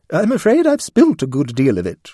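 apologetic. Acted. Lady Blemley apologizing to the cat, flustered. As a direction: fluster over the spilt milk. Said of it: "she said apologetically".

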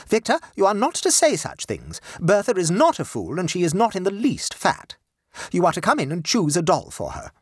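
high, firm mother voice, scolding; a proper lady lecturing her boy; stern mother. Acted. Mother ordering her sulky son about, high and firm.

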